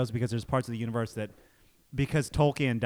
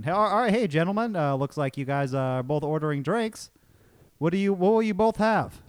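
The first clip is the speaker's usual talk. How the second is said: lightly voiced cheery barman, higher and louder; bar staff; 4 semitones higher, 3 dB louder than usual. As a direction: play the upbeat bartender greeting. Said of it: "I'm the wait, the bar staff".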